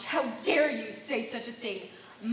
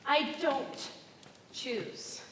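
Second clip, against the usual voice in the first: whispered; 5 dB quieter, much slower than usual. Acted. Faltering refusal.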